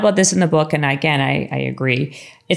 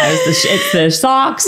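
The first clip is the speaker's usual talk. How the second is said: excited high shout. Real, not acted. Friend listing Lisa's gifts, shouting excitedly about the socks. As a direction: pitch shoots up in an excited squeal. Excited gift list climax.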